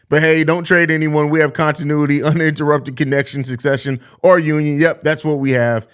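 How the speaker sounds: mock-earnest no-trade speech; sarcasm voice. Streamer mocks fans who won't trade anyone, dry sarcasm. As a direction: play it straight while meaning the opposite. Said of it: "Saying this with my best sarcasm voice".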